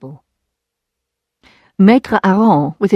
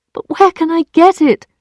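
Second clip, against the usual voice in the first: high, loud desperate plea; 10 semitones higher, 4 dB louder than usual. Acted. Emma asking Lheureux where to find money, desperate. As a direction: beg in panic.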